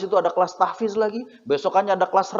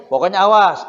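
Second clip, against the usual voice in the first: louder parental warning; mock threat; 7 dB louder than usual. Mother warning her child over breakfast, mock threat. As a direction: warn firmly, like a mother laying down rules.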